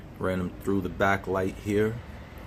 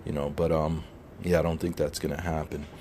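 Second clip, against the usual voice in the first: talking around a cigar in mouth; words muffled by a cigar in mouth; 3 semitones lower than usual. Real, not acted. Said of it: "'cause I got the cigar in my mouth".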